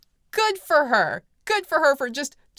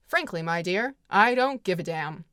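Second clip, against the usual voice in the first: a slightly lower, flatter take of the famous line; 3 semitones lower than usual. Retold or imitated. Clark Gable dismissing Scarlett, in a slightly lower cool take. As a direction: toss it off coolly, lower. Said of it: "which is a very famous line".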